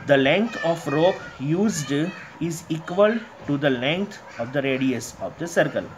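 reading the question out very slowly, word by word; slow textbook reading. Acted. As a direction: read it aloud to the class like dictation. Teacher reads textbook statement aloud. (किताब से धीरे-धीरे पढ़ना)

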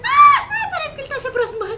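loud high panicked yelling; panicked scream. Real, not acted. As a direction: scream as the monster closes in. Panic as monster approaches.

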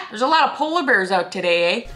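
lightly put-on Canadian accent, amused; jokey Canadian small talk ending on "eh"; Canadian "eh" demo. Shown as a demonstration. Vlogger joking through a Canadian lesson, Canadian accent. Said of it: "Canadian lesson number one".

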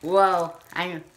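high squeaky helium voice. Real, not acted. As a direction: sound like you just sucked helium. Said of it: "my voice is gonna be funny".

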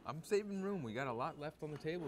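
defensive. Real, not acted. Defending himself, teased.

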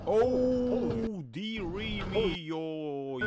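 high, loud, drawn-out cry of dismay; dismayed exclamation. Real, not acted. Reacting to a crash on video, high drawn-out dismay. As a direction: stretch out a high wail of alarm.

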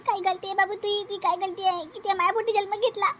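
soft, grieving mother; hushed maternal lament; tearful pity. Acted. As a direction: pity your child with quiet sorrow. Crying mother pities her son.

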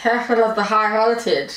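talking round a mouth guard; words mangled by a mouth guard; mouth propped open. Real, not acted. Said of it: "I cannot hear a word".

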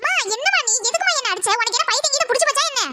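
put-on whiny teen daughter. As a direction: complain like a spoiled teenage girl. Daughter woken by slap, protests.

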